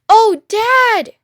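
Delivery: put-on high, loud child's cry; excited cry. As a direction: squeal with delight to his father. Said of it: "he cried out".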